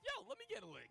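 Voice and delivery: high hammed-up eager plea; eager pervy voice. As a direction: beg it like an excited kid. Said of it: "has Lay over here like".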